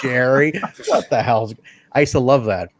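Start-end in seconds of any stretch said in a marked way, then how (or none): 0.0-1.5 mildly upset commentator impression; mock exasperated complaint; Lance Russell. Commentator fed up with Jerry, mildly upset. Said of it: "like, when somebody's just upset".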